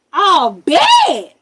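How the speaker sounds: high loud excited "Oh, bet"; eager mock reply. Man in car eagerly agreeing to help, high and loud. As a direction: answer like he's thrilled for action.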